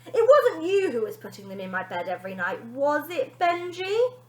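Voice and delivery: sister accusing brother darkly; darkly suspicious girl. Acted. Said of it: "The girl's face darkened".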